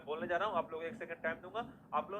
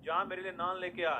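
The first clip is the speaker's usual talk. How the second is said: louder, slow bossy order; bossy demand; 4 dB louder, slower than usual. Retold or imitated. Lara Dutta orders you to fetch naan, loud and bossy. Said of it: "आपको क्या बोली?".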